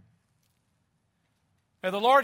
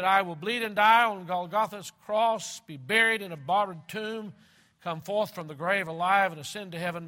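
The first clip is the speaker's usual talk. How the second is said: Jesus speaking; 3 semitones higher, 7 dB louder than usual. Acted. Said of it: "He said".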